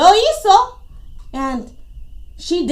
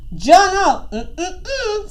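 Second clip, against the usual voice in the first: Tortuga refusing; 3 semitones higher, slower than usual. Acted. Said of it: "said Tortuga".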